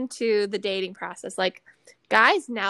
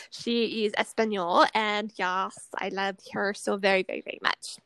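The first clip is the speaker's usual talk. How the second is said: put-on Spanish accent. Slips into Spanish friend's accent.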